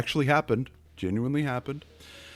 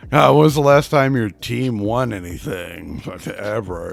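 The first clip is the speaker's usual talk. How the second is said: sneering heel promo. Acted. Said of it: "cheap heat is the exact opposite".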